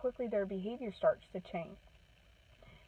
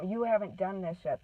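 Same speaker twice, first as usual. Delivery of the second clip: mock yell. Shown as a demonstration. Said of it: "You don't have to scream and holler at them".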